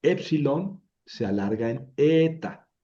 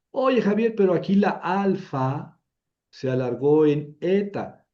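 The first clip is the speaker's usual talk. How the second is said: mock student objection; 5 semitones higher, 4 dB louder than usual. Teacher voices imagined student objection.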